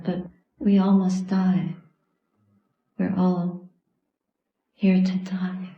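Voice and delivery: measured dharma talk with long pauses; meditative dedication. Real, not acted. Teacher dedicating the practice to those who died, meditative and measured. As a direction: lead a solemn dedication, pausing between phrases.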